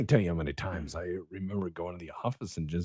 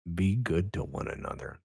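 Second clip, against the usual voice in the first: calm, measured heartfelt advice with long pauses; soothing, sincere sign-off; silky smooth voice; 2 semitones lower than usual. Real, not acted. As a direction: speak smoothly and unhurriedly, leaving space between phrases. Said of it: "this silky smooth of a voice".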